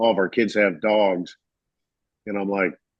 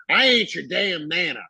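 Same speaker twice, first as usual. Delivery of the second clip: mock indignant; 8 semitones higher than usual. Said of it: "And she goes".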